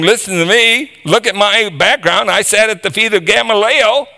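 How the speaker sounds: high, puffed-up mock boasting; self-promoting boast. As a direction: act out a man pumping himself up. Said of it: "pumping himself up like he did".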